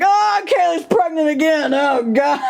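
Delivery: half-laughing mock outcry; mock exasperated yell. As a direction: throw up your hands in mock despair. Mock dismay again.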